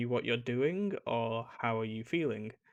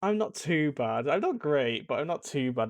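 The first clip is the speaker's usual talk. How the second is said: slow, drawn-out "not too bad", a bit louder; lukewarm so-so reply; 3 semitones higher, 5 dB louder than usual. Shown as a demonstration. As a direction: shrug it off as merely okay. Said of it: "it's almost a negative, but it's not".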